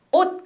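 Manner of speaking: final consonant of 옷 released as a hissed s; English speaker's 옷 with a sibilant ending; English learner's mispronunciation. Retold or imitated. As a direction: say 옷 ending in an audible s. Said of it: "영국 사람한테 가르치면 ... 이렇게 발음해요".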